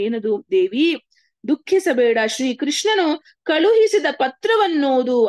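devotional story reading. Acted. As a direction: read it out with solemn, lifted emphasis. Reads a devotional story aloud.

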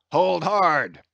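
urgent warning. Acted. Sailor warns the crew at the reel, urgent warning. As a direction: call it out sharply to the crew.

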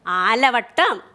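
ആലവട്ടം drawn out slowly, syllable by syllable; modeled for repeating. Shown as a demonstration. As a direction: stretch ആലവട്ടം for the class to repeat. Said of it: "ഒന്ന് പറഞ്ഞേ മക്കള്".

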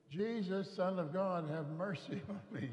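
high, loud pleading cry. Retold or imitated. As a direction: shout it over the crowd, begging. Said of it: "yelled only louder".

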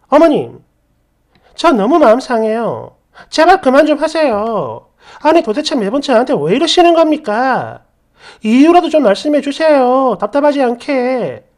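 exasperated, emphatic protest; standing up, pleading. Acted. Daughter-in-law confronting her mother-in-law first time, exasperated protest. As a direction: push back with mounting frustration. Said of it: "이렇게 처음으로 대들었고".

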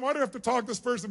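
fast, soft, put-out muttering; a touch of resentful mumble; quick annoyed grumble. Shown as a demonstration. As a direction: grumble under your breath, fed up. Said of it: "a state where you really think it's a waste of your time".

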